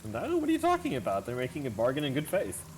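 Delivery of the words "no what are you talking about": feigned innocence. Acted.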